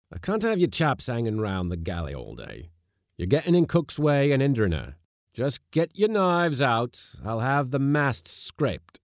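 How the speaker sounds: loud, high voice of command; barked orders. A narrator's reading. Skipper sending crew off to work, loud commands. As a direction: lay down orders forcefully, slowing at the end.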